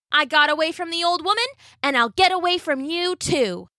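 high, taunting cookie voice; gingerbread man. A narrator's reading. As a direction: brag like a cheeky cookie. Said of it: "said the gingerbread man".

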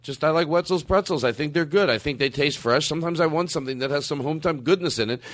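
sincere testimonial as if read from copy; scripted ad read. Pretend. Host defending pretzels with slogans, scripted ad read. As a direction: recite it like a sponsor's testimonial. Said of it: "sounds like you're reading something".

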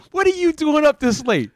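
high, loud taunting yell; shrill sing-song heckle from the stands; mock heckler yell. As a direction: taunt him like the fan behind the bench. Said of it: "he would just start screaming".

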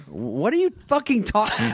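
high-pitched retold outburst; exasperated. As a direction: blurt it in comic disbelief.

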